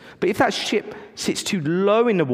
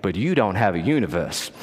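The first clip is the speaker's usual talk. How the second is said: cheesy American preacher; 3 semitones lower than usual. Retold or imitated. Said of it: "his cheesy American voice".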